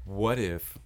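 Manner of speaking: slow, dragged-out question; slow drawn-out voice. Acted. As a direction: stretch every word out slowly. Drawn-out mock suggestion.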